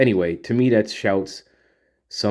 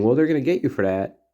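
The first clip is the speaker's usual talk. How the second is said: light, breezy and a bit faster; innocent joking warning; 5 semitones higher, faster than usual. Retold or imitated. Jack teases the girls about a prank, light and breezy. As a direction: toss it off like a harmless tease. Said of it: "it could be totally innocent".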